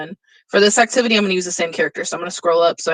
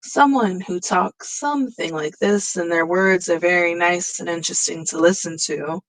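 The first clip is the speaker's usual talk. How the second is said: melodic tone. Shown as a demonstration. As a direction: let the pitch swoop gently through the words. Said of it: "a melodic tone would be".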